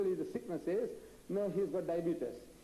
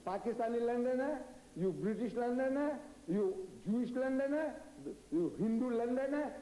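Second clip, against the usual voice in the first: taunting challenge; 6 semitones higher than usual. Retold or imitated. Confronting the British audience in London.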